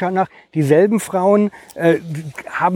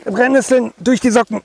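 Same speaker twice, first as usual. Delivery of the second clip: stung outcry; 6 semitones higher than usual. Real, not acted. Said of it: "Oh, hast du bekommen?".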